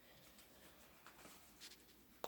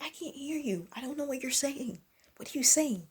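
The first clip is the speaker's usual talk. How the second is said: exasperated complaint; 8 semitones higher, 7 dB quieter than usual. Retold or imitated. Retold reply to inaudible mumbler.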